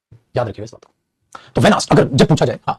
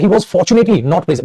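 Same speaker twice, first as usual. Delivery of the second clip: slow reading; 3 semitones higher, much slower than usual. Shown as a demonstration. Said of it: "reads the exam sentence".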